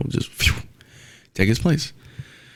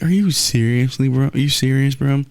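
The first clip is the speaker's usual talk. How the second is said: higher-pitched mock disbelief; incredulous; 4 semitones higher than usual. Fan calling out a sulking quarterback, incredulous. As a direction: challenge them in raised, incredulous pitch.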